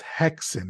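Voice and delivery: "Hexen" said carefully, first syllable set out clearly; corrected pronunciation. Shown as a demonstration. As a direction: say "Hexen" as the corrected name, HEK-sen. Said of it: "I've been saying it already wrong".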